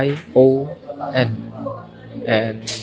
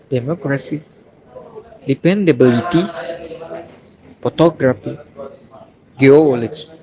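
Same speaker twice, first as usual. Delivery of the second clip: "democracy, dependability, photography, geology" stressed third syllable from the end; teacher's word list, "democracy, dependability, photography, geology", each stressed on the third-last syllable; antepenultimate stress; faster than usual. Shown as a demonstration. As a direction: hit MOC, BIL, TOG and OL in "democracy, dependability, photography, geology". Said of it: "Stress on anti-, antepenultimate syllable".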